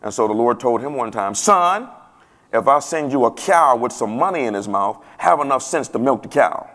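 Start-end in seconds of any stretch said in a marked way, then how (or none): 1.3-6.7 put-on country accent. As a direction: give it a touch of country twang. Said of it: "that's how country people talk".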